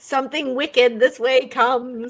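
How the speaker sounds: slow witchy chant, breaking into laughter. Shown as a demonstration. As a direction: croon it like a giggling witch. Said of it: "you kinda have to do it with a witchy voice".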